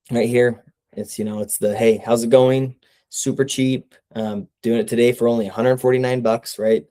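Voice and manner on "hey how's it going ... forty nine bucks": salesy pitch. Shown as a demonstration. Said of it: "Uptones are salesy".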